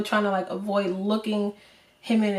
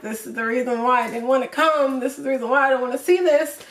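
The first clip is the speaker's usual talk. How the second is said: higher, louder, upset outburst; retold distressed protest; 4 semitones higher, 4 dB louder than usual. Granddaughter upset at seeing grandpa cry, distressed protest.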